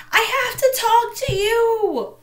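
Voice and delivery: high, loud, slow plea across the court; urgent call. A narrator's reading. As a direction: call out to make him listen. Calling to ignoring boy.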